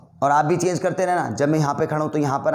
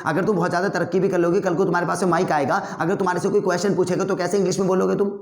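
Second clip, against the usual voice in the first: heated debate; 4 semitones higher than usual. Shown as a demonstration. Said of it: "गुस्से से जैसे मैं बोल रहा हूँ और जल्दी जल्दी".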